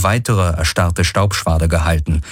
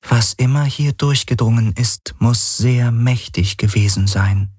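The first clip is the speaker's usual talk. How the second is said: Helix voice; 5 semitones higher than usual. Acted. The Helix answers Galen.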